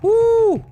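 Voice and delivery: loud, high cheer; excited whoop. Real, not acted. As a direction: let out a big happy whoop. Cheering during the game.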